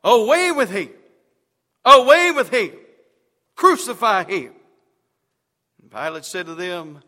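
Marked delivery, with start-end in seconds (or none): 0.0-0.9 loud, higher shout of the mob; crowd shouting. A narrator's reading. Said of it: "they cried out". 1.8-4.5 much louder, higher yell; furious mob shout. A narrator's reading. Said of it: "they cried out".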